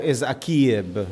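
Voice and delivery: akieb said slowly and carefully as in San Mateo; San Mateo pronunciation. Shown as a demonstration. Teacher gives the San Mateo form akieb slowly. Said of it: "San Mateo".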